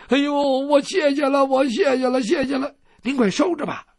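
a lightly voiced granny, gushing thanks; grateful old lady.

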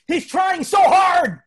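high, slow, loud mock scolding; drawn-out shrieked reproach, hammed up; indignant old lady. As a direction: shout it in defence like an outraged old lady. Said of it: "this poor old lady in the front row".

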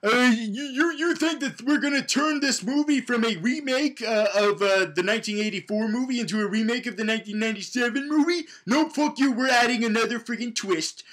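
high, scornful mock filmmaker voice; sneering send-up of studio bosses. Comedian mocking the filmmakers, high scornful voice. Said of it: "they're like".

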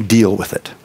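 dismissive deal with it. Retold or imitated. Pastor showing how "sorry" talks down to the other man, curt. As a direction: drop "Deal with it" low and curt. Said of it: "I'm basically saying".

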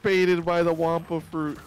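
dramatic. Acted. Player narrates the game moment dramatically. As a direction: announce it like a dramatic trailer.

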